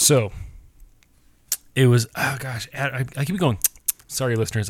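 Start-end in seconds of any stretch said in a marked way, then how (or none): 0.0-3.6 talking through clicking mouth noises; wet mouth clicks. Real, not acted. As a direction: mouth clicks between words. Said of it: "I keep making this mouth noise".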